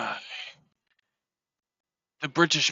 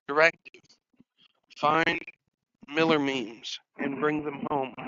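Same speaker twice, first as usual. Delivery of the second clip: mock director command. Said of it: "This is my director hat".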